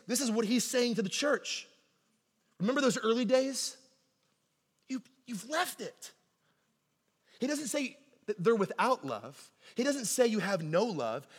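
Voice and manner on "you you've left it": slow, soft, grave; hushed rebuke. Acted. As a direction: let it land gently.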